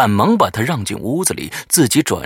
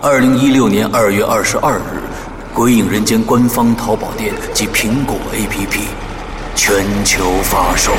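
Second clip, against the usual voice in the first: announcer read; 5 dB louder than usual. Acted. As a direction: announce it like a radio promo. Announcer intro over music.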